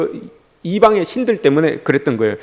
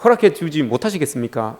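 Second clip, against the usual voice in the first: wheedling complaint; 5 dB quieter than usual. Acted. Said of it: "이거예요".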